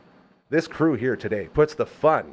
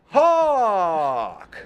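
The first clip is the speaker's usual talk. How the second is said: hype shout; 6 semitones higher, 4 dB louder than usual. Acted. Calling out the guest's name.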